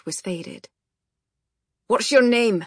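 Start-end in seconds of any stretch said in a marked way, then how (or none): 1.9-2.6 sharp, loud bark, pitched up. A narrator's reading. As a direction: bark it out as a gruff Scot. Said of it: "he barked".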